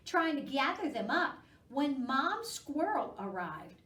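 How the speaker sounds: gentle read-aloud for little ones; storybook reading. A narrator's reading. Reading a squirrel story aloud to children, gently. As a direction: read it like a picture book at storytime.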